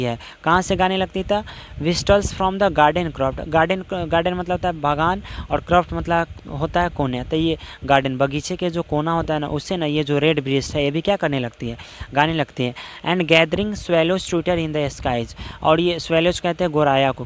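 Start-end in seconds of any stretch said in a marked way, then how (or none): 1.8-3.5 very slow quoting of a verse phrase; slow classroom recitation of a poem. Shown as a demonstration. Teacher quotes verse line. 13.1-15.4 very slow quoting of a verse phrase; slow classroom recitation of a poem. Shown as a demonstration. Teacher quotes verse line.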